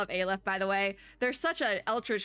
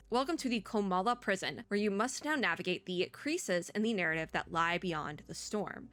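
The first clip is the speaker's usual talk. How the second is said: storyteller introducing a prison; story narration. Acted. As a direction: read it as a game's scene-setting. Reads game's story text aloud.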